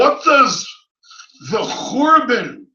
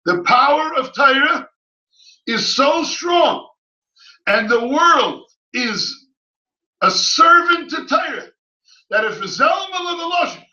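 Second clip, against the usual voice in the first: fervent ruling; 4 semitones higher than usual. Retold or imitated. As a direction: proclaim the power of Torah with fervour. Rabbis' ruling quoted with fervour.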